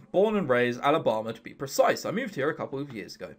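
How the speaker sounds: low-pitched attempt at a Southern accent; unsure Southern accent. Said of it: "I can't do a redneck".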